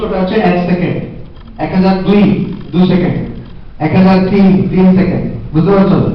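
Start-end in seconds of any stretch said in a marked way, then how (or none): 1.6-2.2 each number paced to a full second; slow one-second count. Shown as a demonstration. Teacher showing children a one-second count. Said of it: "এক হাজার এক যখন তুমি বলছো".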